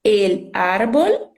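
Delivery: El árbol drawn out slowly with clear final l; Spanish pronunciation. Shown as a demonstration. Teacher repeating the masculine Spanish example, El árbol said slowly with clear l sounds. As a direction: say El árbol slowly, stressing the first a.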